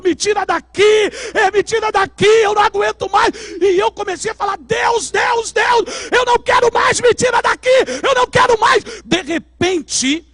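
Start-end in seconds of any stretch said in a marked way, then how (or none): 0.0-3.3 loud desperate cries, pitched high; screaming for help. Retold or imitated. People trapped in the abyss, screaming to be pulled out, loud and desperate. 4.6-8.8 high, loud pleading shout; desperate cry to God. Retold or imitated. Preacher reliving his near death, screaming to God, high and loud.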